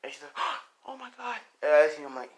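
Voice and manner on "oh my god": shocked. Acted. Character shocked at the sight.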